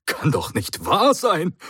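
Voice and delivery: can't believe his luck; amazed. Acted. The Doctor marvels at the device, astonished and high. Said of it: "staunte der Doktor".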